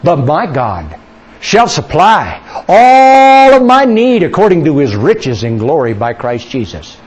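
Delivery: slow, swelling faith declaration that drops away at the end; confident declaration. Acted. Believer declaring God will supply every need, emphatic proclamation. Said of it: "you'll say things like this".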